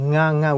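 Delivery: "nga" starting on a velar ng; impossible initial ng. Shown as a demonstration. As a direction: model "nga" with NG before the vowel. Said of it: "we cannot pronounce that way".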